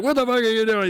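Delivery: high-pitched mock yell at a child; retold scream. Dad retelling how he confronted a random child, high mock scream. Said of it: "I'm just screaming at him".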